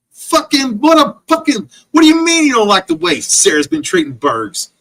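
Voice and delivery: incredulous furious shout; outraged yell. Real, not acted. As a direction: explode in disbelief at the complaint. Outraged at quoted complaint.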